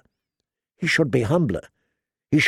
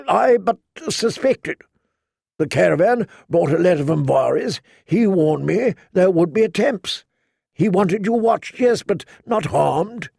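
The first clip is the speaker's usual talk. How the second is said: lightly voiced knight, hurt and insistent; a proud man defending himself, a little higher; a hint of a wounded knight pleading his case; Jorah, pleading; 5 semitones higher than usual.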